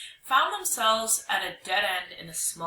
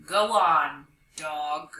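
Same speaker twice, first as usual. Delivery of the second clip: slow, deep voice; 4 semitones lower, 5 dB louder, much slower than usual. Acted. Young hyena posing as a ghost to Dog, slow deep voice. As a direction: lower ghostly command. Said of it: "in a slow, deep voice".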